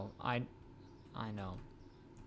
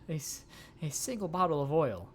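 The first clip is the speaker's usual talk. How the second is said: high, bright sales pitch voice; salesperson voice; 4 semitones higher, 3 dB louder than usual. Acted. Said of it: "time for cold calls".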